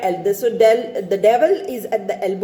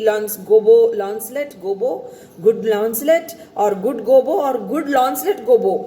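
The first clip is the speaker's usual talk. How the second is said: coaxing nicely. Acted. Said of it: "addressing him very nicely".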